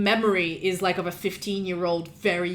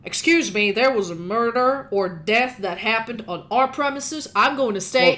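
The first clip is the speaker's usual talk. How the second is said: a bit louder, insisting; guard standing firm; 2 semitones higher, 4 dB louder than usual. Acted. Guard refuses to leave the murder scene, insisting. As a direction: plant your feet and refuse. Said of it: "the guard is like".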